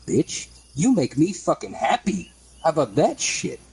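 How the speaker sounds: angry retold confrontation. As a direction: get in his face and bark it out. Confronting the fry cook.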